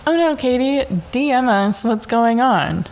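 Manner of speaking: a lightly voiced perky airline rep; chirpy customer service. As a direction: mimic a fake-cheerful brand account. Airline's sweet customer-service reply.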